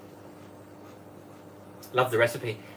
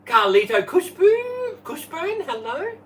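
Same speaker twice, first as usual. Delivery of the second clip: much higher, louder welcome; high sing-song greeting; 3 dB louder, slower than usual. Real, not acted. Host welcoming livestream viewers, bright sing-song hello.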